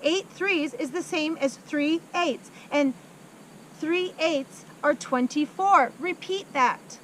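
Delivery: demanding headmistress. Acted. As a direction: drill it into him, slowly. Headmistress dangles boy, demands.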